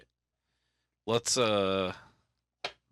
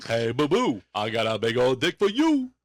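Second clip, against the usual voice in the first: put-on cartoon bear greeting; Yogi Bear; 3 semitones lower than usual. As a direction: call your little pal like a cartoon bear. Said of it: "were called Yogu and Boo Boo".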